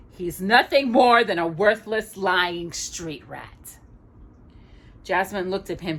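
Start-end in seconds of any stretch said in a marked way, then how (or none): 0.1-3.8 slow sneering insult; contemptuous villain. Acted. Jafar insults Aladdin before Jasmine, slow contempt. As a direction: spit out the insult slowly.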